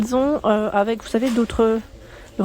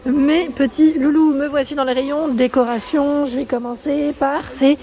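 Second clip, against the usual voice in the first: voice cracking; 4 semitones higher than usual. Real, not acted. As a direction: voice breaking now and then. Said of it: "j'ai la voix qui casse parfois".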